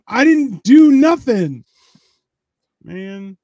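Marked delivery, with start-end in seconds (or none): 0.1-1.6 higher, louder defensive whine; a high, indignant mock whine. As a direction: protest your innocence like a kid. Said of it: "when everyone's like".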